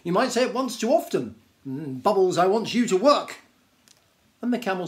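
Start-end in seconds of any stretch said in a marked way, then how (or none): 0.0-3.4 warning Djinn. Acted.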